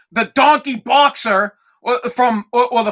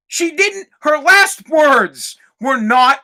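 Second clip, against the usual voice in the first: emphatic shout; 4 semitones higher, 3 dB louder, slower than usual. Real, not acted. Ranting about last words.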